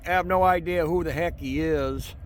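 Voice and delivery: speaking up over the rumble of a train. Real, not acted. Talking over a passing train.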